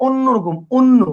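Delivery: অন্য with the first sound like o, onno; অন্য pronounced onno, not awnno; closed o demo. Shown as a demonstration. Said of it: "কিরকম লাগতেছে?".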